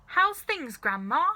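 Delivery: loud, high call to grandma; boy calling to his grandmother; George calling. A narrator's reading. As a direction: call out to her, bright and high. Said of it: "George said".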